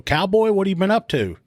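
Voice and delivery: friendly greeting. Retold or imitated. Cop greeting known suspect.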